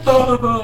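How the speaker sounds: long, high fake boo-hoo; mock crying wail. Retelling the kid crying in the car, mock wail. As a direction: imitate crying with a drawn-out wail. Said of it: "he's, like, crying".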